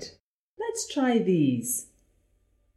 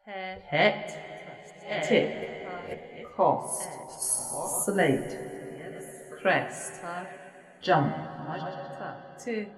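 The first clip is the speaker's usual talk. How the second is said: flat robot voice, one word at a time; 5 dB quieter, slower than usual. Shown as a demonstration. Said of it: "say these words just like the robot would".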